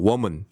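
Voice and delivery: "woman" with a full rounded second vowel; wrong second vowel. Shown as a demonstration. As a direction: say "woman" as "wo-moon". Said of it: "woman 이렇게 얘기 안 해요".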